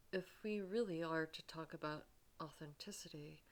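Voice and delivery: unvoiced, hesitant whisper; whispered hesitation. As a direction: hush it, working up courage. Doug hesitantly confessing.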